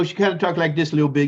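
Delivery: put-on a quick, light Cajun accent; imitating Sue's Cajun accent. Telling his cohost how his old mentor Sue talked, in a light, quick Cajun accent. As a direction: rattle it off fast in a Cajun accent. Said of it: "You don't know about the Cajun accent?".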